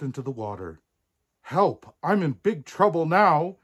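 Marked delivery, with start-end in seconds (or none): 1.4-3.6 high, loud storybook cry for help; wailing. A narrator's reading. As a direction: wail as a princess in trouble. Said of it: "wailed Poppy".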